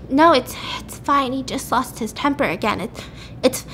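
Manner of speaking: put-on halting, stammered crying boy; lightly acted choked-up brush-off; tearful, imitated. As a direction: falter through it as if holding back tears. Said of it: "and he's crying, obviously".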